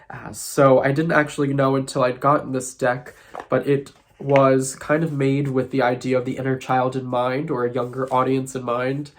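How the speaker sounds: blocked nose from sinus trouble; nasal voice. Real, not acted. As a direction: speak through a stuffed-up nose. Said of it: "my nasally voice".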